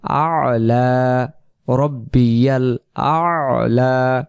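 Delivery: আলা with a held throat sound before "la"; drawn-out আলা with long vowels; throaty ayn demo. Shown as a demonstration. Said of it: "সেজে যে আমরা পড়বো".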